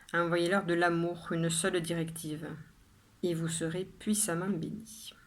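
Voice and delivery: measured poem reading with pauses after each line; poem recitation. Acted. Poet reading her own poem to viewers, measured recitation. Reads the poem a third time.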